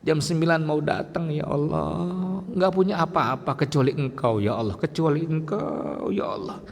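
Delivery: a mild tearful plea to God; imitated crying prayer. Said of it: "Dia nangis". (doa sambil menangis, ditirukan ringan)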